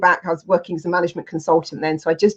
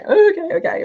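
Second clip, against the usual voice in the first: a much higher, lightly voiced drunk friend; the drunk friend on the phone, her voice put on much higher; imitating drunk friend; 12 semitones higher than usual. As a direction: mimic her tearful, drunk yes. Drunk crying friend agrees.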